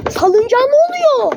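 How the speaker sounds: high, surprised question. Real, not acted. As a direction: sound really caught off guard. Swing going wild, surprised.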